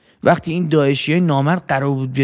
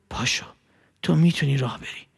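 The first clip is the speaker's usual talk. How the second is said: soft inner voice; 6 dB quieter than usual. Acted. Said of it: "یه چیزی بهم میگفت".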